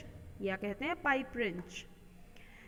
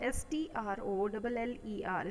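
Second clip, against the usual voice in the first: spelled letter by letter. Shown as a demonstration. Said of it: "spelling out the word".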